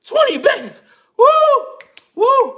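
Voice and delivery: high, loud whoops over the cash; giddy yelps of delight; overjoyed shout. Acted. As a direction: cheer like a man handed a fortune. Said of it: "start smiling and dancing like".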